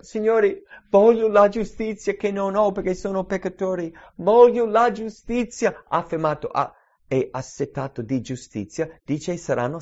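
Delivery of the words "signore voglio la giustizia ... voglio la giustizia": pleading sinner. Pretend. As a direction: beg God for righteousness. Sinner's prayer voiced by preacher.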